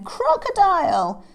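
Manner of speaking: high, loud call of alarm; crying out. Acted. Lion to Crocodile, loud high cry. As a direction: holler the name. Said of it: "cried Lion".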